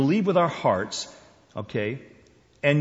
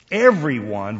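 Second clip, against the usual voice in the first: loud punch on "everyone"; "everyone" delivered with a loud punch; emphatic EVERYONE; 7 dB louder than usual. Shown as a demonstration. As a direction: hit "everyone" hard at the front. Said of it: "we don't get the punch".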